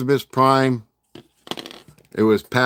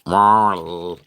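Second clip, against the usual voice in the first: robot voice; 3 semitones lower, 4 dB louder than usual. Retold or imitated. Imitating a movie robot.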